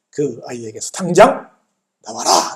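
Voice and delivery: slow, emphatic mock order; commanding. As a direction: order it out word by word. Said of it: "명령을 하십니다". (단호하게 명령하듯이)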